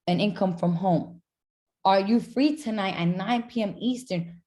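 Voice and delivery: mildly urgent, upbeat voice-note pitch; urgency and excitement. Shown as a demonstration. Coach models a voice-note invitation to a prospect, mildly excited and urgent. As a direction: sound keen, with a touch of urgency. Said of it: "There's urgency, there's excitement".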